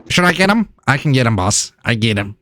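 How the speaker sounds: lightly voiced eager imp; a hint of a henchman imp; Ixbit. Imp offering his boss an attack, lightly voiced henchman. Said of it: "Ixbit's like".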